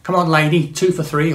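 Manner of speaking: a quick mock Cockney market cry; Cockney market trader. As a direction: hawk it like a Cockney stall holder. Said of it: "sounds a bit like a Cockney market trader".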